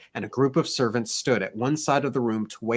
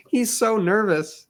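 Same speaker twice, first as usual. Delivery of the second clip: fussing gentleman; 10 semitones higher, 4 dB louder than usual. Acted. Breeze fussing over nervous girl.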